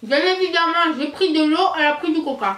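talking through a mouthful; mouth full. Real, not acted. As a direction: chew while you talk. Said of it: "parler la bouche pleine".

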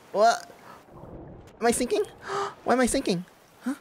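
high, loud, startled questions; alarmed surprise. Real, not acted. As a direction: suddenly realize you're sinking. Suddenly sinking in the game.

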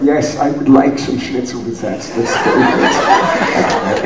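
put-on German accent, half laughing; amused mock-German delivery; Werner Herzog. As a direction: speak in an imitation German director's accent. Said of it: "I love doing Werner Herzog's voice".

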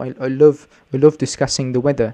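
lightly put-on British accent; hint of a mock British accent. Joking to learners about accents in a light British accent. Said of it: "like a British accent".

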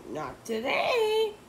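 curt, high and slow; snapped. A narrator's reading. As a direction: cut them off sharply. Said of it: "snapped Miss Ribble".

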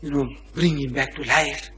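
hushed private plea to God; very soft, inward praying; silent prayer. Acted. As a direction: murmur a prayer under your breath. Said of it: "He's offering up a silent prayer".

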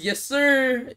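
high loud punchline; loud high pun on the name; loud yes sir. Pretend. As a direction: bark it out like a cadet. Pun on name Mohammed Yasir.

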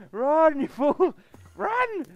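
high, loud urgent yell. Real, not acted. Gamer yelling at a fleeing creature. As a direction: yell at them to flee.

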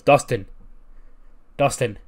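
mildly urgent shout of a name; acted calling out. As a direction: imitate calling to an injured man. Acts out calling to injured brother.

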